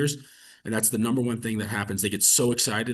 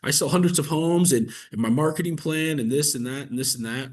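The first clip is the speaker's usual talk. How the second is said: mock overselling. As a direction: pile it on like a pushy agent selling himself. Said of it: "I don't need to be like".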